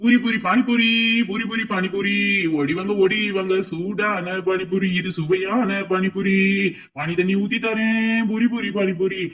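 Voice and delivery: sing-song vendor call; hawker's cry. Acted. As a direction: cry out your wares. Hawker's chant.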